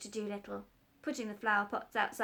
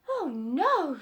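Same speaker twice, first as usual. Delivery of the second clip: quick, louder objection; alarmed doctor, louder; doctor protesting; 6 semitones higher, 10 dB louder than usual. Acted. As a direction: stop him at once.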